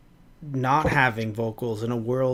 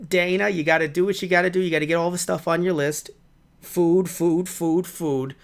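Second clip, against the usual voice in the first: chatty spider voice; 5 semitones higher than usual. Pretend. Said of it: "I just want the spider to just be like".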